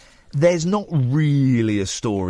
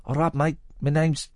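second go at the singer's greeting, without the Cockney; 3 dB quieter than usual. Retold or imitated. Host corrects his impression of a singer's greeting, lightly voiced. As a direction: lightly imitate a rock singer saying hello. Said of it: "He didn't do it in a Cockney accent".

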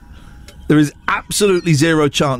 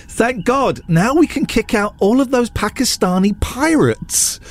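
mocking racist tweet; 7 semitones higher than usual. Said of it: "One tweet that said".

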